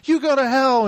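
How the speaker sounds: played-up indignation; mock angry retort. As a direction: imitate a girl telling someone off. Acts out girls' quarrel.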